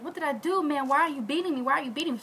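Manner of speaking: mildly acted pleading questions; pleading to reason. Maid reasons with the lady beating her, mild plea. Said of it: "trying to reason with her".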